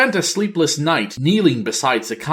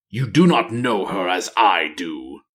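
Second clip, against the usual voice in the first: Nathanos; 4 semitones lower than usual. Acted. Nathanos, dark ranger, speaks.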